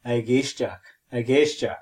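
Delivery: a géisteach with a hard G and ch; Irish word demo. Shown as a demonstration. Teacher models a géisteach, G clearly voiced. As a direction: sound out a géisteach with the G heard. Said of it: "And for listening, we say".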